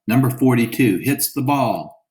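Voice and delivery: a touch of a shouted play call; announcer shouting. Acted. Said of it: "radio announcer shouted".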